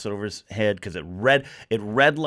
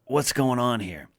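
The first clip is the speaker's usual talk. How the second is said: acted bewilderment; 3 semitones higher than usual. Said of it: "you're like".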